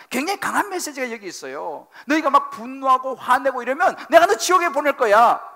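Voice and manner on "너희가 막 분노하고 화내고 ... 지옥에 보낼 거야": louder, higher stern divine threat; God's strong warning. Acted. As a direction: warn them of hell with force. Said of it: "라고 말씀하시는 굉장히 강력한 메시지".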